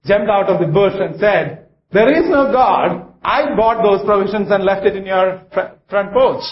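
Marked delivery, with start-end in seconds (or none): 1.9-6.4 spring the surprise on her; triumphant reveal. Acted. Atheist jumps out of bush.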